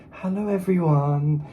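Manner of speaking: slow, polite receptionist greeting; secretary voice. Retold or imitated. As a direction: mimic a prim secretary. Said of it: "It's like a goddamn secretary".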